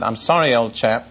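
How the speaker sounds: lightly put-on upper-class British accent; a touch of la-di-da British in a retold line. Friend excusing himself to the Bible class teacher, la-di-da British accent. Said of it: "la-di-da British accent".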